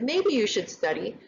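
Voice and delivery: gentle, tentative advice with a rising end; soft suggestion. Shown as a demonstration. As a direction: offer it as a polite maybe, not an order. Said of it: "respectful in a way".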